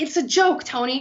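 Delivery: acting out a worker defending herself; defensive protest. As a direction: protest it to the boss, voice lifted. Employee protests to angry boss.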